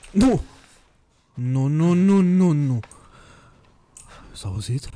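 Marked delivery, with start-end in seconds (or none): 0.1-2.8 rising, louder string of no's; alarmed refusal. Real, not acted. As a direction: build in panic, then ease off. Refusing what the game shows.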